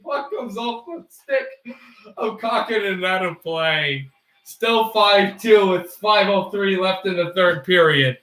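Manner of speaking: lightly mock sportscaster call; hockey play-by-play.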